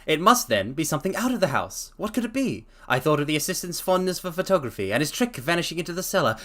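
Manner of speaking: reading a story aloud, lightly voiced Holmes. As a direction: read the detective's explanation steadily. Reads Holmes's explanation aloud.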